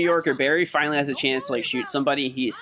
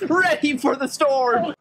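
patriotic speech; 9 semitones higher than usual. Pretend. Mock patriotic gazebo speech.

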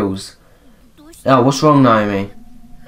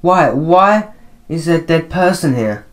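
acted alarm; 6 semitones higher than usual. Voicing a startled game character.

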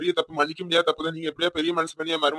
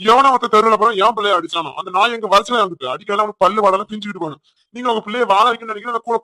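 loud, high angry shouting; furious shout; 3 semitones higher, 5 dB louder than usual. Acted. Father shouting at the in-laws who hit his son, furious. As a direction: roar it at whoever hit your boy.

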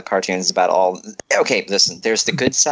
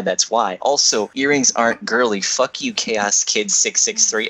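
narrator voice; 3 semitones lower than usual. Acted. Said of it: "I gotta get my best narrator voice".

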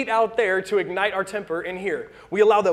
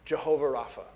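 voice of God; 5 semitones lower, 5 dB quieter than usual. Acted. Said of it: "He said".

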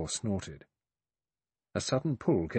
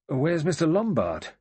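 higher, louder, mildly breathless question; 8 semitones higher, 6 dB louder than usual. A narrator's reading. Blore back with the rope, asking Armstrong breathlessly. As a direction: ask as if just hurried back. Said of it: "Blore said breathlessly".

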